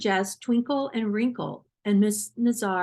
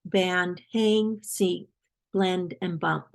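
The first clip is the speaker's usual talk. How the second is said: slow word list; much slower than usual. Shown as a demonstration. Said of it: "Miss Nazir says these words".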